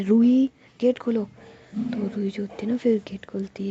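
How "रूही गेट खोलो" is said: calling louder. Acted. Mother knocking again louder.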